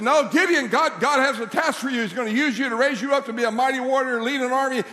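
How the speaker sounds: earnest messenger pressing the point; angel's insistence. Acted. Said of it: "And he said".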